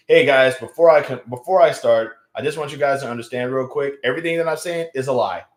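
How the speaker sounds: mock pre-show disclaimer; pretend comedy disclaimer. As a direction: address the audience before the bit. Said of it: "before I do the stand-up comedy bit".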